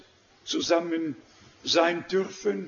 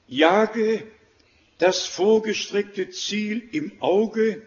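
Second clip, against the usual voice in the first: "jage" set apart and punched louder, then "das vorgestreckte Ziel im Auge"; "jage" louder and on its own before "das vorgestreckte Ziel"; emphatic stress; 3 dB louder, slower than usual. Real, not acted. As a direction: land firmly on "jage", pause, then carry the emphasis through "Ziel". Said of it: "Jetzt die Betonung auf das Ziel".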